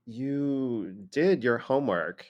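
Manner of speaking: slow, measured delivery with a falling end; deliberate, spaced-out statement; different tone. Shown as a demonstration. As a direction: draw the words out slowly. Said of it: "Three different ways of saying".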